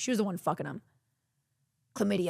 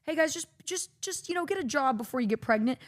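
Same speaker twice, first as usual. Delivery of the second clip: high, chirpy, laughing teacher voice; hammed-up mocking of a Texas sex ed teacher; 3 semitones higher than usual. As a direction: play a fake-cheerful health teacher, much higher. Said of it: "our sex ed in Texas was just".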